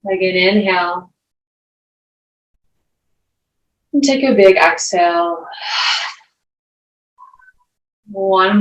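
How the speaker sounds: unhurried meditation teacher, long pauses between phrases; guided meditation. Acted. Yoga teacher guiding the class into breath and grounding, guided meditation. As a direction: guide them through each breath, leaving space.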